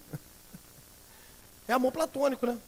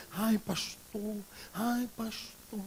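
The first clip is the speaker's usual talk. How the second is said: mildly imitated, slow, softer sighing "Ai, pastor"; gushing churchgoer; 2 semitones higher, 7 dB quieter, much slower than usual. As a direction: stretch the "Ai" like a doting churchgoer, half-mocking. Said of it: "Aí faz até entonação de voz".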